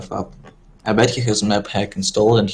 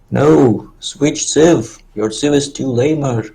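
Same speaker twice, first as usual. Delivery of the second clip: loud, high mock Brazilian accent; imitating Kick-Ass Sans, Brazilian accent; 5 semitones higher, 4 dB louder, slower than usual. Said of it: "the way Kick-Ass Sans says them".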